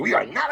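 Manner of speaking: imitating her emphatic "We are not"; mock emphasis. Host quotes Malika back in disbelief, mock emphasis. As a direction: stress "We are not" as a mocking echo. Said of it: "what's up with the emphasis".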